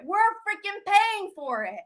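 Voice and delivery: usual speaking voice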